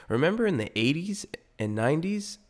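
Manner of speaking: ordinary delivery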